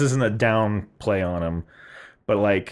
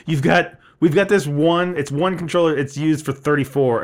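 mimicked clerk voice; 4 semitones higher than usual. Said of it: "I'm gonna try and mimic the voice".

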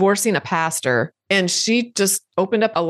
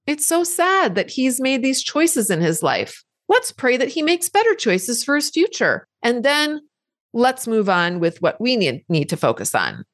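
a higher, gentle comforting voice; loving and kind; 3 semitones higher than usual. Retold or imitated. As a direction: soothe the worried part like a mother. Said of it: "says lovingly and kindly".

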